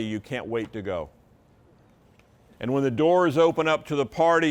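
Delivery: ordinary delivery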